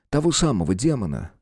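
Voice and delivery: ordinary delivery, nothing marked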